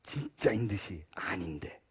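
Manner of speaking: soft slow whisper. Real, not acted. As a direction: confide it in a hush. Hushed aside to the congregation. (속삭이듯 작게)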